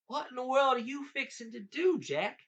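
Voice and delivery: high, loud, baffled question; puzzled giant. A narrator's reading. Giant questioning Jack at the creek, puzzled.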